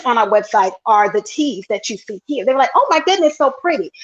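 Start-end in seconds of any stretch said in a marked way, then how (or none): 2.7-3.9 higher-pitched mock customer gush; lightly acted admiring gasp of praise; imitated gushing.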